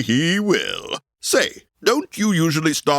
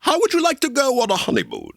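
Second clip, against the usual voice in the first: teasing excitement; 12 semitones higher, much faster than usual. Acted. Host springing a surprise offer.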